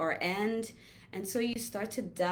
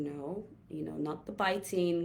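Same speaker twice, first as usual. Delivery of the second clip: gentle correction. Shown as a demonstration. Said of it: "gently just saying".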